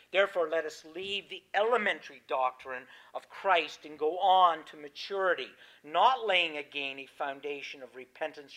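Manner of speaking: measured, emphatic Bible reading from the pulpit; preacher reading scripture aloud. Acted. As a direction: read the verses out solemnly, leaning on key words. Reads scripture aloud to congregation.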